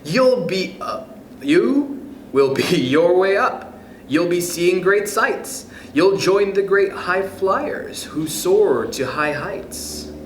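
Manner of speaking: lively storybook read-aloud voice; expressive picture-book reading; reading to children. Acted. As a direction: read it to a class of kids, bright and sing-song. Teacher reads picture book aloud.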